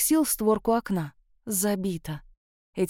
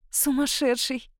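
softer and slow, a happy exhale; happy breathed exclamation; 3 semitones higher, 4 dB quieter, slower than usual. A narrator's reading. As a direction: breathe it out with delight. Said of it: "счастливо выдохнула я".

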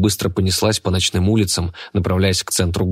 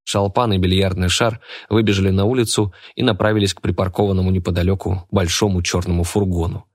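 ordinary delivery

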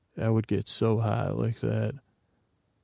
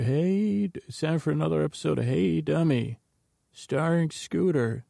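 higher, fast mock host intro; TV show announcer; 5 semitones higher than usual. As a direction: ham up a show host's opening.

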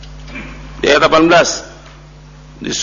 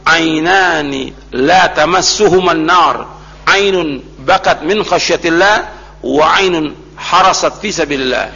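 slow, deliberate Arabic quotation; hadith recitation; slower than usual. Real, not acted. Preacher quoting the Prophet on two eyes spared the fire, slow recitation. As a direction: recite each phrase slowly with drawn-out vowels.

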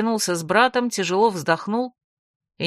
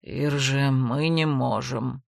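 lower, softer and slow with regret; regretful; 6 semitones lower, 4 dB quieter, much slower than usual. Acted. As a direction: let her down gently, sorry to refuse. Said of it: "с сожалением произнёс лорд Дагорн".

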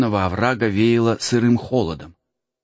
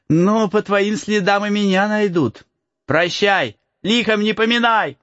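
put-on light higher boyish voice; cheeky peasant boy; 10 semitones higher than usual. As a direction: tease the lost boy. Boy character voice.

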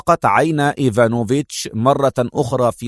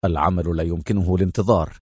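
firm; 7 semitones lower, 4 dB quieter than usual. Acted. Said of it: "قائلا في حزم".

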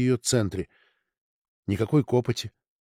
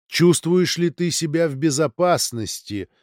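higher ringing voice from above; a lightly ringing crystal voice; 4 semitones higher than usual. Acted. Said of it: "хрустальный голос".

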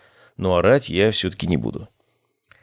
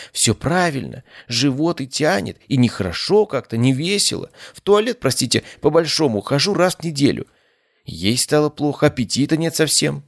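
higher, plaintive fussy lady listing symptoms; complaining patient woman; 7 semitones higher than usual. A narrator's reading. Patient describing stomach woes, higher fussy plaintive voice. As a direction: voice her like an anxious, whiny patient.

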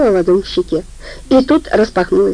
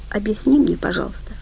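soft, hushed plea fading out; softly begging for an answer; shaken whisper; 2 semitones higher, 6 dB quieter than usual. Acted. Vika softly begs Heli to explain, voice fading. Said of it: "потрясённо прошептала Вика".

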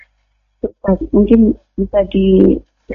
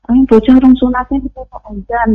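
mildly indignant mimicry, pitched up; retold angry complaint; 5 semitones higher than usual. Neighbour objecting to a young boy's call to prayer, retold mildly angry. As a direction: imitate a cross neighbour grumbling, higher. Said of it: "itu marah".

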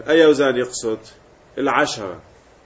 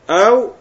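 high, loud أو; stressed or; 7 semitones higher, 6 dB louder than usual. Shown as a demonstration. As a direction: hit أو to mark the alternative.

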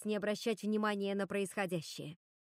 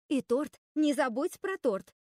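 louder, higher, stretched-out reminder; eager interjection; 6 semitones higher, 6 dB louder than usual. A narrator's reading. Марта reminds the others about the cake, butting in eagerly. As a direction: chime in insistently, drawing out the words. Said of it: "вставила Марта".

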